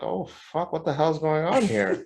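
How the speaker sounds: lightly acted "what is happening?"; mock bewilderment. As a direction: play up baffled disbelief. Retold alarm at customer complaints.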